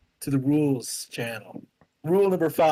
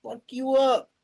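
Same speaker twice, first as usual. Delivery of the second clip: gruff threat; 8 semitones higher than usual. Pretend. Player voices Aegir threatening onlookers.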